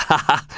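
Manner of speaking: short acted ha-ha; mock laugh. Soldier mocking Gessler's empty head, laughing. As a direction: laugh at your own joke.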